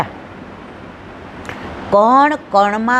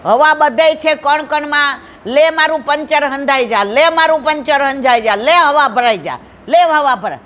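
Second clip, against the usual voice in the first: mock incantation; 3 semitones higher than usual. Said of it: "wheel કાઢીને આમ ઊંચું કરીને કે".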